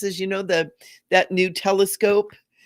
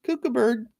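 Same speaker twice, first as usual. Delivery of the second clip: mock judgmental; 10 semitones higher, 3 dB quieter, much slower than usual. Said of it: "people are like".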